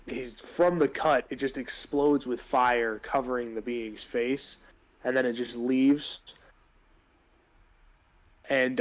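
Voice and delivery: DM setting the scene; game master narration. Acted. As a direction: narrate the fight vividly. DM narrates boss fight scene.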